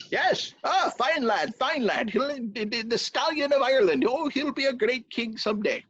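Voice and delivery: high servant voice. Acted. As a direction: fawn over the lad. Servant praising son.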